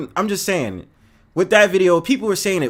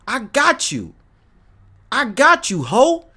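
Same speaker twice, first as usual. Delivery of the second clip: mock accommodating; 5 semitones higher, slower than usual. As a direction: tease the vegan date. Mocking vegan dates.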